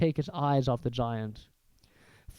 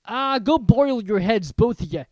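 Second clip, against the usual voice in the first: dismissive Hagrid; 6 semitones higher, 8 dB louder than usual. Acted. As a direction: brush the Dursleys off. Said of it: "said Hagrid".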